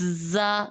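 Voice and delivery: زا with a strong buzzing z; hard zaa. Shown as a demonstration. Teacher shows the firm z sound of the letter. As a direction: press the z of زا hard. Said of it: "یہ جو زی کی آواز sounding آ رہی ہے".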